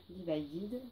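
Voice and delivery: Divided in English with a French accent. Real, not acted. French reader saying an English title to viewers, French-accented English. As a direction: read Divided the English way as best a French speaker can. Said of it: "Vous m'excuserez pour mon accent anglais".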